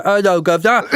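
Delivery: a light Cockney put-on through a laugh; laughing mock Cockney. Explaining the accent story, laughing mock Cockney. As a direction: toss off a jokey Cockney line, laughing. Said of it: "think of Cockney".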